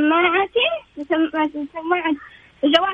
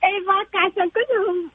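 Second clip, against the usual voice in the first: phone held away; 3 semitones higher than usual. Real, not acted. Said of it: "قربي بس الجوال منك عشان ايش صوتك يكون واضح".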